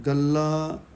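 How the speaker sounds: ਗੱਲਾ with an open, un-nasalised final vowel; no nasal ending. Shown as a demonstration. Teacher models careful reading, ਗੱਲਾ without nasal ending. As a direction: keep the end of ਗੱਲਾ free of nasal sound. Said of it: "ਬਿਨਾਂ ਸ਼ਬਦ ਉਚਾਰਨ ਕਰਨ".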